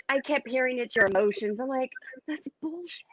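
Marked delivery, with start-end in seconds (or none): 2.3-3.0 secretive whispered dismissal; whispered scoff. Retold or imitated. Retold dismissive reaction, cursing.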